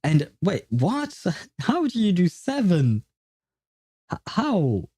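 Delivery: high, stammering disbelief with a laugh; totally baffled, voice shooting up; mind-blown. Real, not acted. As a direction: reel from impossible news. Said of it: "that just broke my mind".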